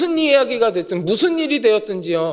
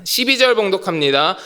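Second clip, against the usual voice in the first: ordinary talk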